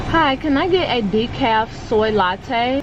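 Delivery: talking with a retainer in; slightly lisped retainer speech; wearing a retainer. Real, not acted. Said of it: "I always feel like a toddler when I'm wearing my retainer".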